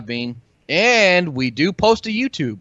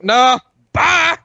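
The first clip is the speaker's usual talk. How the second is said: mock quitting; 9 semitones higher, 7 dB louder than usual. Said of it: "Be like".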